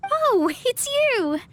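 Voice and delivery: surprised recognition. Acted. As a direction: stop short, then recognize them. Surprised to see the visitors.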